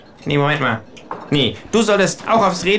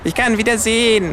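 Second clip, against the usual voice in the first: joyful shout; 5 semitones higher than usual. A narrator's reading. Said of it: "küsst den Boden und schreit".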